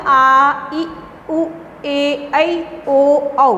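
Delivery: each vowel held a little, said separately; teacher demonstrating long vowels one by one. Shown as a demonstration. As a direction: recite आ, ई, उ as drawn-out separate sounds. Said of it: "दो गुना समय लगता".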